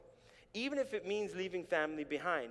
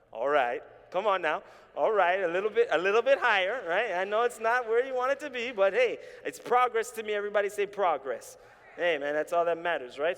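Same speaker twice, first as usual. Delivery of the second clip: loud, high-spirited preacher shout; big, raised pulpit voice; rallying the crowd; 4 semitones higher, 10 dB louder than usual. Real, not acted. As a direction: work the congregation up, pitch climbing. Preacher rallies the crowd over grade.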